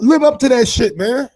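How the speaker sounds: high, loud demand; shouted challenge. Real, not acted. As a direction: bark the dare at him. Challenging Casimiro to back words.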